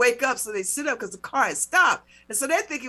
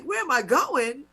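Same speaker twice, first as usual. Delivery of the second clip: drawn-out, mildly indignant echo of the question; annoyed retort; 3 semitones higher than usual. Retold or imitated. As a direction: repeat the cop's question slowly, a touch annoyed. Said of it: "'cause I'm getting annoyed".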